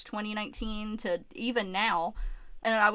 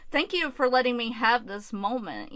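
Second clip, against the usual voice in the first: emotional thanks. Real, not acted. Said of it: "I'm so emotional".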